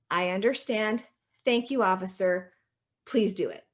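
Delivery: calm, mild courtesy; courteous and unruffled; very polite. Acted. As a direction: politely stand your ground with an officer. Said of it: "you are very politely going to say".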